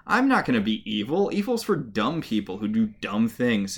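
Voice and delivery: dismissive scoff, mimicked; Emma, brushing it off. Podcaster retelling how Emma blows off the warning, mock-dismissive. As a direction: puff and wave it away in a mock retort. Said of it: "Emma blows it off".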